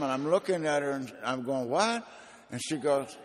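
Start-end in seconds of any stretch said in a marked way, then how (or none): 1.7-2.1 high startled question; confused what. Retold or imitated. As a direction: blurt it out, bewildered. Waking confused on plane.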